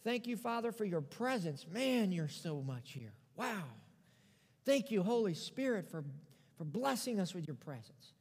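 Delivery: earnest, hushed pastor's prayer. Acted. Pastor praying over the congregation, earnest and hushed.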